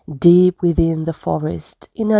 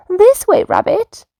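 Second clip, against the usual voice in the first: high, louder little mouse call; 12 semitones higher, 4 dB louder than usual. Acted. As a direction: shout the rabbits over, waving. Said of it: "Mouse cried next".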